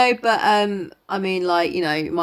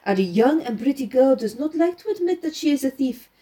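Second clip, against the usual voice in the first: lightly voiced French-accented detective; Poirot; 3 semitones higher than usual. Poirot laying out the girl's movements for his companion, lightly French-accented. Reads Poirot's explanation aloud.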